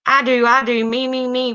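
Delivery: put-on eager kid. Johnny begging the teacher to pick him, high and eager. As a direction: bounce in your seat begging to be picked. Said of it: "replied Johnny".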